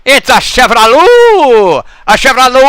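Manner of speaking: excited exclaim. Acted. Exclaiming the car name.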